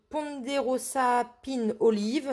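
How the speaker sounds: English name with a French accent. Real, not acted. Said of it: "désolée pour mon accent anglais". (anglais avec l'accent français)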